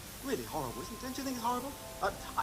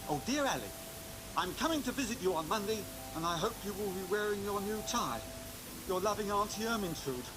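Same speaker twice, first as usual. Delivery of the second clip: lightly voiced loving auntie; reading aunt's letter; 4 semitones higher than usual. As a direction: read the letter as a fond aunt. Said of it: "What's it say?".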